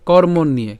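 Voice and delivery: কর্মণ্যে said as kor-mon-niye; careful Sanskrit pronunciation. Shown as a demonstration. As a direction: end কর্মণ্যে on a clear "iye" glide. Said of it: "উচ্চারণটা কেমন হবে?". (কর্মণ্যে-র য-ফলা "ইয়ে"-র মতো উচ্চারণ)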